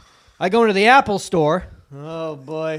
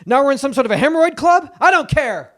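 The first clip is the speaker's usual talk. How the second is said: Jay Leno impression; 6 semitones higher, 4 dB louder than usual. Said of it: "Do Leno".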